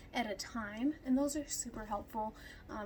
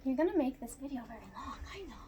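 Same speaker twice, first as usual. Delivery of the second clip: whispering; faster than usual. Real, not acted. Whispering aside to dog.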